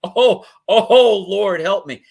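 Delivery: mock-horrified high cry for the Lord's help; aghast churchgoer. Church member aghast at dirty comic, high mock-horrified cry. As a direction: clutch your pearls in high-pitched shock. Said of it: "They're like".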